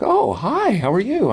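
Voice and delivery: high-pitched gushing fan greeting; woman fan. Retold or imitated. Woman greeting a celebrity outside the bathroom, high mock gushing. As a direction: chirp it high, imitating an eager fan. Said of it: "looks up and is like".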